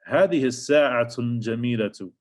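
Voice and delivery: هذه الساعة الجميلة read briskly in Arabic; quick Arabic read. Shown as a demonstration. Teacher reads the example sentence aloud, briskly. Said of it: "reads the Arabic example".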